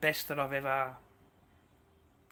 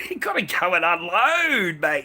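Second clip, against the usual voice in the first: laughing loudly through the line; 4 semitones higher, 11 dB louder than usual. Real, not acted. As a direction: laugh it out, higher and louder. Laughs, repeats line louder.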